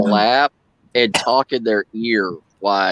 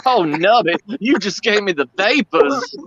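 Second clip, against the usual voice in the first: mock swooning belle; 9 semitones higher than usual.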